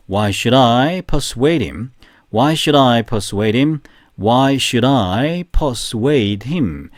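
very slow, even, word by word; slow repetition drill. Shown as a demonstration. Teacher leading the class drill, very slowly. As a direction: read it slowly three times. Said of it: "세 번 시작".

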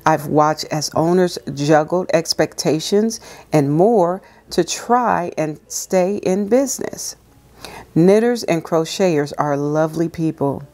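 calm, measured reading aloud; devotional reading. Acted. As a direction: read it gently like a devotional.

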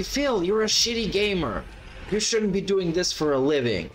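heckling viewer. Retold or imitated. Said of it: "everybody's gonna call him out and say".

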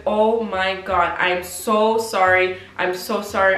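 slow, stretched-out mock apology; effusive apology. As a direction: act out a man apologising profusely. Imitating the date's drawn-out apology.

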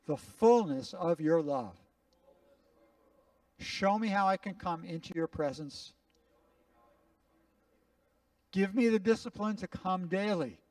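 a pastor praying aloud for the room to repeat; prayer to repeat. Acted. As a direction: pray it so they can echo you. Leads a spoken prayer to repeat.

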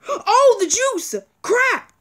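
high startled gasp and curse; shocked realization. Real, not acted. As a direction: catch the mistake too late. Forgot the orange juice.

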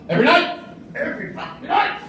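exasperated rant. Acted. Ranting about nightly fights.

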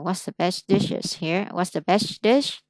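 slow, careful "What's the best dish?" with rising end; đọc chậm, rõ từng chữ; slow clear model. Shown as a demonstration. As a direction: spell the question out slowly for a learner. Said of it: "Đọc sai cái".

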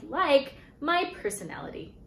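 building from earnest pitch to desperate plea; pleading. Retold or imitated. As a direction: sell yourself harder and harder. Pleading her case in retold interview.

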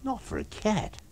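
lightly voiced wry man; Kemp voice. Kemp character voice.

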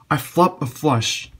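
slow, loud and delighted; excited, drawn out. Real, not acted. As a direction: savour every word of it. Repeats the good news slower.

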